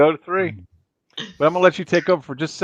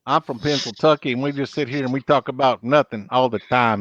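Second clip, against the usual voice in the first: echoing mimicry; 3 semitones lower than usual. Host echoing the guest's words, light mimicry. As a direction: parrot it straight back like an echo. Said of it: "That sounded like an echo".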